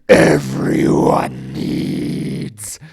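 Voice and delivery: slow eerie whisper; creepy whisper. Acted. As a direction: breathe it out sinister. Creepy echo of the slogan.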